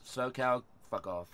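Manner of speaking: low deadpan dismissal; quiet, flat fuck off. Shown as a demonstration. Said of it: "All right, here you go".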